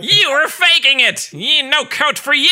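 high, loud villain accusation; Skeletor. Retold or imitated. Villain catching a kid faking, high outraged squawk. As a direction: screech it like a cartoon villain. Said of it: "But Skeletor is".

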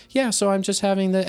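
imitating a friendly student, pitched high; retold innocent question; kind student. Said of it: "they'll be totally fine, kind".

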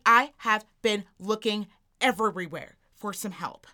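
imitated, deliberately spaced-out complaint; mock exasperation, each word set apart; demanding customer. Older shopper demanding help from a fellow customer, mock-indignant.

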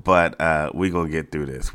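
slightly congested, nasal tone. Real, not acted. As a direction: speak through a stuffy nose. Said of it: "there is a little nasal thing going on".

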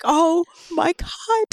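retold amazement. Friend recalling watching the film, drawn-out mock disbelief. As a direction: stretch it slowly in retold amazement. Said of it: "I was like".

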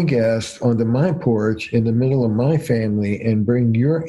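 level, even retold warning; monotone. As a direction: keep it steady and unmoved. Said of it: "his voice was monotone".

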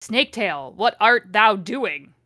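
hammed-up archaic villain, slowing on the question; Voldemort. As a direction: declaim it with drawn-out, forceful words. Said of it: "the way she writes Voldemort is like this".

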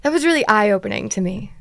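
ordinary talk

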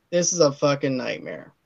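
low, soft grumble to himself; muttered dismay. Retold or imitated. Looking round suburbia in dismay.

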